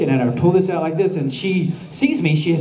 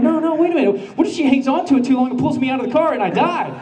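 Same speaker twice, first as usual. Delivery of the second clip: panicky; 6 semitones higher, faster than usual. Retold or imitated. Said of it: "I'm like".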